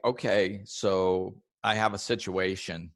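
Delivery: unhurried, settled and kind; peaceful. Shown as a demonstration. Showing a client the peaceful way to talk. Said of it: "the way I'm saying it already is more peaceful".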